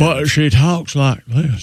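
lazy Southern drawl, slow; Southern accent. Shown as a demonstration. Mimicking Jodie Foster's Southern drawl for friends. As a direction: drag it out Southern style. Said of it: "I'm using the Southern accent".

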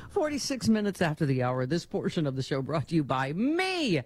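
upbeat sponsor read. Acted. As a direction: sell it like a radio ad. Host reads sponsor ad.

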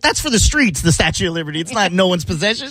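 mock Monica argument. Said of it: "Monica's argument was".

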